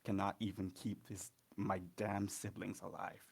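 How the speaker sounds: forceful, with a touch of anger; angry. Acted. Son rails at his mother about the gods, angry. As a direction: lean hard and loud on key words. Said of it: "Vincent just gets really angry".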